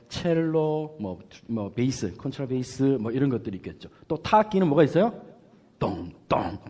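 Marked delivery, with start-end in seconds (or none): 5.8-6.6 imitating timpani. Shown as a demonstration. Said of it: "똥 하는".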